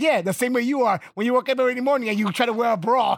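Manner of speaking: punchline delivered while cracking up; laughing through quote. Retold or imitated. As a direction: laugh your way through the insult. Al Bundy's retold insult.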